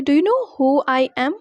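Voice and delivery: slow teaching model. Shown as a demonstration. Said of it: "तो English में बोलेंगे".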